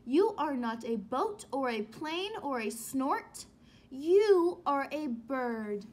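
steady joyful list, slowing at the end; proudly naming her at last; happy baby bird. Acted. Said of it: "said the baby bird".

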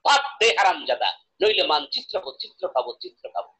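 loud demand, dropping away at the end; demonstrated angry recitation, hard first line; poem's proper fierce tone. Shown as a demonstration. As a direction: recite it as a forceful threat, then tail off. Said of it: "যে সুরে উচ্চারণ করতে হবে".

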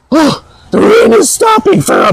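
mild mock shout; mock trivial emailer. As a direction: play up a silly worry. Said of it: "it's always something trivial".

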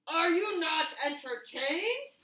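gladiator taunt. Acted. Rock asking the watching crowd after winning, slow and booming. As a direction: demand it of the crowd.

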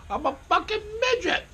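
high-pitched laughing words; cracking up mid-sentence. Real, not acted. Laughing at his own joke.

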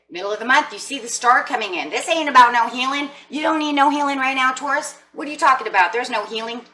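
high, loud sassy protest; playful, indignant sass. Pretend. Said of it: "Let's get that sass going".

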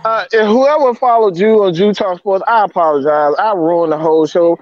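sorry for ruining the show; distraught apology; stressed and upset. Real, not acted. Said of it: "but I'm stressed out".

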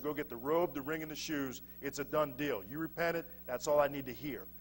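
low, soft and settled; quietly reassuring father. Acted. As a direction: wave the matter away gently, voice down. Father readily settles son's return.

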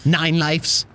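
Greg the Grim Reaper. Acted. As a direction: grumble like a fussy cartoon reaper. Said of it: "Greg the Grim Reaper".

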